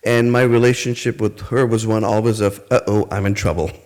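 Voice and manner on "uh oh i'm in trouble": light laugh through a mock worried uh-oh. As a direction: laugh while voicing your childhood self in trouble. Recalling being in trouble.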